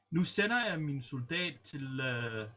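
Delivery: lightly voiced Danish game callouts; quoting Danish callouts. Teammate retelling Danish orders, lightly voiced. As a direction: read out the old Danish orders, deadpan. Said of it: "the communication was just a little bit too weird, saying".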